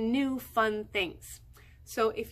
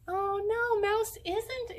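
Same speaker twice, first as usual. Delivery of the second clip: high playful oh no; mock surprise; 8 semitones higher than usual. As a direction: pretend dismay for the kids. Mouse not found.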